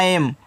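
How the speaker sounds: ऐम with an open "ai" vowel; shown pronunciation. Shown as a demonstration. Teacher showing students how to read AM, ऐम with open "ai". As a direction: say ऐम like English "am". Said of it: "इसको पढ़ते हैं".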